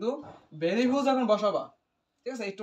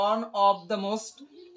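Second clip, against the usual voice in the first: each word stretched and set apart; slow emphatic read-out; much slower than usual. Real, not acted. Teacher showing students the superlative phrase, slow emphatic read-out. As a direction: dictate it slowly, word by word.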